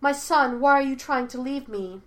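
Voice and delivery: loud, high anguished plea; crying out. A narrator's reading. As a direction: beg him loudly not to go. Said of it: "the woman thing cried out".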